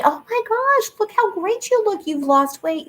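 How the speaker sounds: high, gushing mock praise; gushing compliment. Host imitating people gushing over her weight loss, high and bubbly. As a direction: play the friend squealing over your weight loss. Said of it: "It was so fun for people to say".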